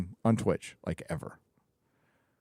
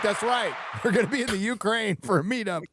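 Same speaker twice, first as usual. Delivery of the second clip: excited; 7 semitones higher, faster than usual. Acted. Hyped joke announcement.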